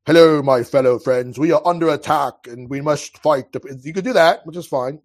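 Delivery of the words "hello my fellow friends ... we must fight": a hint of a stiff, formal speechmaker, louder; stiff formal address. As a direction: deliver it like a dull, proper politician. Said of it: "you can sit there and be like".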